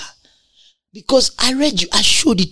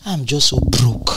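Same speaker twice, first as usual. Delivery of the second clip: mock self-pity; 5 semitones lower, 3 dB quieter than usual. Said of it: "You will never hear a king say".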